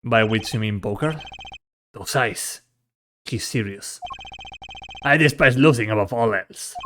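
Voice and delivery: subdued, low-key character dialogue; quiet, restrained dramatic reading; lightly voiced grave rivals. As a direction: hold it back, measured and serious. Voices game dialogue of old rivals.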